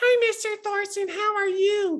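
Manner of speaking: put-on high pre-puberty kid voice. A teacher imitating students back as freshmen, before their voices deepened, in a high kid voice. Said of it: "And you were like".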